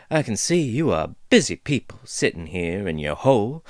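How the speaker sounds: lightly voiced folksy dwarf, amused; easygoing dwarf teasing the intruders; chatty dwarf woman. Dwarf introduces herself.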